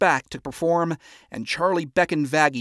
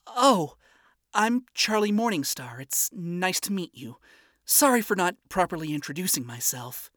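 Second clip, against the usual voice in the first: higher, bright and eager; high friendly voice; 5 semitones higher than usual. Acted. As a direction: greet him happily, voice up high. Friendly princess greeting.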